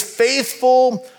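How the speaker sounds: slow, weighty reading of "Faithful"; solemn slow proverb; scripture reading. Acted. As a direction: read the verse slowly, letting it land. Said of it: "Solomon says it like this".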